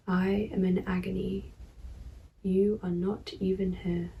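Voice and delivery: measured poem reading with pauses; poetry reading. Acted. Poet reading own verse to viewers, measured poetry reading. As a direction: read the verse evenly, pausing between phrases.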